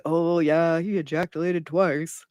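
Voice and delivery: airy put-on voice mocking the quote; mock casual gossip. Host mocking how nobody would say this, airy put-on voice. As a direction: toss it off like idle chatter. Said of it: "Nobody's like".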